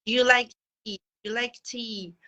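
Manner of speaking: "Do you" merged into "d'you" before "like tea"; connected-speech "Do you", like "dju like tea"; assimilated "Do you". Shown as a demonstration. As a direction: run "Do you" together as one "dyoo". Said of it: "they use the assimilation of sounds".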